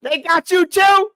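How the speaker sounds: slow, high, loud mock jailhouse greeting. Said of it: "I'll be like".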